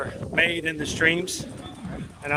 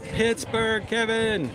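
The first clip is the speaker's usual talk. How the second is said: bad Pittsburgh accent; 5 semitones higher, much slower than usual. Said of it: "I know, it's terrible".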